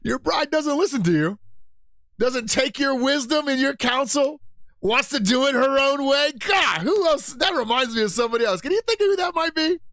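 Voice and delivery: God's voice. Retold or imitated. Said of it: "And he's like".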